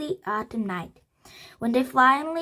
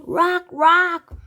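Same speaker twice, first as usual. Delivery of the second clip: high, loud cawing bird voice; loud raven croak; 8 semitones higher, 8 dB louder than usual. A narrator's reading. Raven croaking its name back at Annie. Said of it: "croaked the raven".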